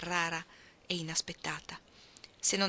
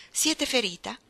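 raised, higher-pitched question; urgent cried question; 5 semitones higher, 4 dB louder than usual. A narrator's reading. Rider asking a fallen lady if she's hurt, urgent cry. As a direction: call out with mild urgency. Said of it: "gridò l'uomo balzando a terra".

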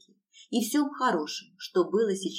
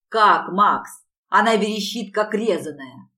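angry hiss; 7 dB louder than usual. A narrator's reading. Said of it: "зло прошипел второй мужчина".

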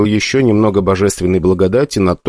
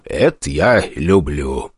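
ordinary delivery, nothing marked

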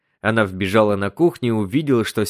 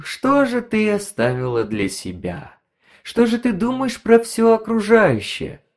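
higher, needling, insinuating tone; sly gossiping gadget voice; 4 semitones higher than usual. Acted. The gossip device needling Elen, sly and smug. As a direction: tease her with every word, sly and smug. Narrator voices the radio Konfida.

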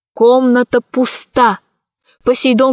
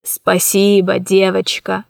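weak thanks; 3 semitones lower than usual. Acted. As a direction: thank her faintly. Weak smile, grateful.

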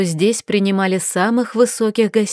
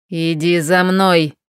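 slow, low commanding order; lightly voiced harsh command; mild bark; 3 semitones lower, slower than usual. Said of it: "рявкнул маг". (сдержанный приказ)

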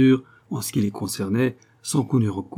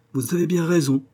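voix gaie; 7 semitones higher than usual. A narrator's reading. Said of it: "avec sa voix si gaie d'autrefois".

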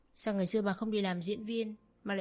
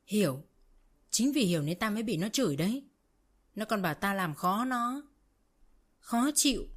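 angry retort; 3 semitones higher, 4 dB louder than usual. Acted. Mother-in-law's angry accusation.

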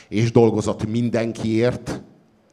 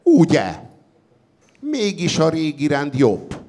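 higher, loud smug delight; gloating triumph; 8 semitones higher, 4 dB louder than usual. A narrator's reading. The victorious council applauding, gloating. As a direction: crow over the victory. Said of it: "tapsolt a győzelmes tanács".

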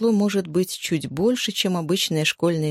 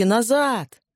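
higher, urgent call to stop; acted yell; 5 semitones higher than usual. Genka yells again to the people walking to the mine, higher-pitched call. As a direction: shout them back from danger. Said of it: "заорал он, что было мочи".

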